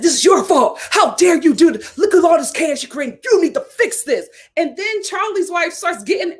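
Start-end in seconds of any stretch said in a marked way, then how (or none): 0.0-4.3 mock angry in-law. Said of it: "He's like".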